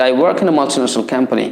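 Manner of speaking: slow, clear dictation; slow model answer. Shown as a demonstration. Teacher models the answer slowly for students. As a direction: say each word slowly for learners. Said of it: "এভাবে উত্তর করতে হবে".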